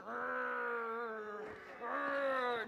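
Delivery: low, drawn-out growl; masculine rage growl. Shown as a demonstration. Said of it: "too, too masculine, more feminine".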